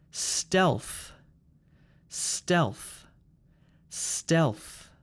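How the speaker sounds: "Stealth" with a breath burst on final th; explosive final th. Shown as a demonstration. Teacher models words for repeating, explosive th ending "Stealth". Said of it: "explosive th sound at the end".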